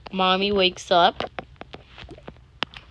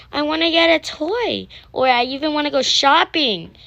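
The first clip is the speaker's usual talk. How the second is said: higher, louder pleading; kid voice asking; 8 semitones higher, 6 dB louder than usual. Acted. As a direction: beg like an eager child. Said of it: "he's like".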